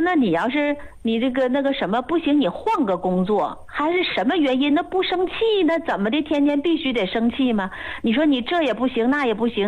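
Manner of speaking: lightly acted perplexed questioning; retold puzzlement. Master doctor questioning a stubborn young patient, puzzled. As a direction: reason with the patient in mildly baffled questions. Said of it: "我师傅就很纳闷儿嘛".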